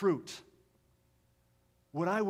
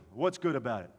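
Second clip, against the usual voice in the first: grumpy husband; 6 semitones lower, 3 dB louder than usual. Retold or imitated.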